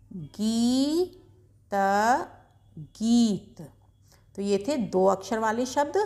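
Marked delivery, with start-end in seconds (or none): 0.1-1.7 गीत with the ii held very long; slow sounding out. Shown as a demonstration. Teacher sounding out गीत slowly for pupils. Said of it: "एक बार जल्दी से पढ़ के देखते हैं".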